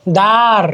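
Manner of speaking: দ্বার said as "dar", no b or w; silent ব. Shown as a demonstration. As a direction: drop the ব in দ্বার, saying "daar". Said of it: "বটা কিন্তু উচ্চারণ হচ্ছে না". (দ্বার, ব অনুচ্চারিত রেখে "দার")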